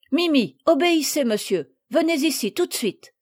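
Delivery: a touch of a strict little mistress; stern order. Acted. Madeleine commanding the bird to come, mock stern.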